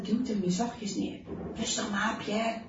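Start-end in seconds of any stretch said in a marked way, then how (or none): 1.5-2.6 soothing father, voice kept low-key; calming. A narrator's reading. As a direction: settle a frightened child gently. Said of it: "zegt hij kalmerend".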